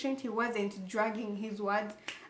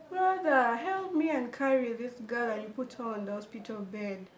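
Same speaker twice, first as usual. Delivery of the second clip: nagging doctor. Retold or imitated. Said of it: "even the way he's talking is nagging".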